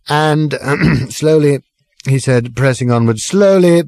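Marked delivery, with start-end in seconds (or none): 3.2-3.8 put-on high, slow, drawn-out drunken pronouncement; pompous drunk speech. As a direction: lecture the pub grandly, slowly.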